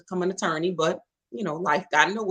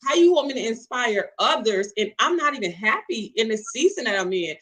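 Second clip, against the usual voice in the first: raised, exasperated plea to God; fed-up complaint; 3 dB louder than usual. Retold or imitated. Fed-up single woman venting to God, exasperated. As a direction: vent the frustration at God, a bit louder. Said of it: "I was fed up with God".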